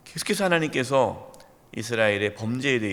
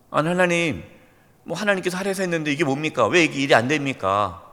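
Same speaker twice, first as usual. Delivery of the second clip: 1 grumbling believer. Retold or imitated. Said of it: "하나님께 원망한 적은".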